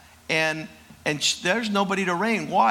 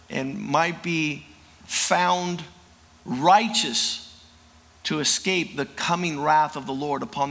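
closing prayer. Acted. Preacher praying over the congregation on Mother's Day, calm prayer. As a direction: pray it over the congregation, unhurried.

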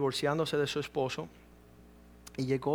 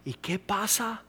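mocking worried question; 6 semitones higher, much slower than usual. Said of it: "las peleas que hemos tenido".

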